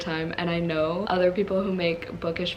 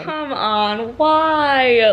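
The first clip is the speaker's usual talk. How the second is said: exasperated cry; 5 semitones higher, 8 dB louder, much slower than usual. Real, not acted. Frustrated by a page turn.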